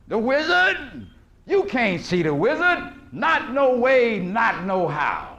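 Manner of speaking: refusing doorman. Retold or imitated. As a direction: play the doorkeeper scoffing at the visitors, drawn out. Gatekeeper refusing Dorothy at door.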